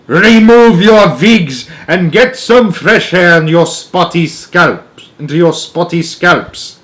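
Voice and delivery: slow, loud shout, rolling the words; witch shout. A narrator's reading. Grand High Witch shouting at the witches about their scalps. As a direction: spit the words out with relish. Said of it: "she shouted".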